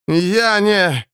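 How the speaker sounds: choked on swamp water, coughing. Acted. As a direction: squeeze it out through a throat full of water. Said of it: "выдавил Эрвин, закашлялся".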